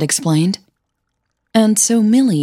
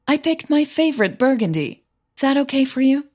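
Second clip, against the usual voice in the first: Suzanne calling out; 8 semitones higher than usual. Acted. Suzanne calls from kitchen.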